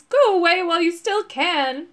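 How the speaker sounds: loud, high, sorrowful monster cry; werewolf's cry. A narrator's reading. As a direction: cry out as a weeping werewolf warning people off. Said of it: "cried the wo-, voice".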